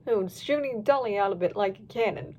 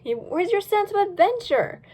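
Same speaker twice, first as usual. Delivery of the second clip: teasing voice; 7 semitones higher than usual. Acted. Teasing brother, character voice.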